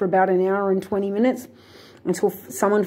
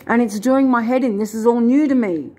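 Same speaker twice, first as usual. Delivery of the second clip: higher and louder, fed up; real exasperation; 3 semitones higher, 4 dB louder than usual. Real, not acted. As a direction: let the stress burst out. Venting her stress.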